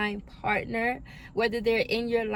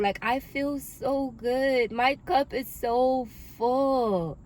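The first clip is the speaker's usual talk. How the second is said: moved to joy; 4 semitones higher, slower than usual. Real, not acted. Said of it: "I can really cry tears of joy".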